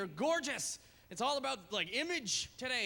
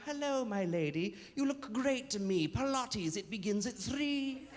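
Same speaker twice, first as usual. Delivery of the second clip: rhyming centaur; slower than usual. Retold or imitated. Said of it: "Greeting you in rhyme".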